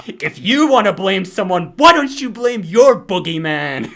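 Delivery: put-on loud, high Brooklyn mom accent; hammed-up Brooklyn mom. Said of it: "my attempt to do, like, a Brooklyn accent".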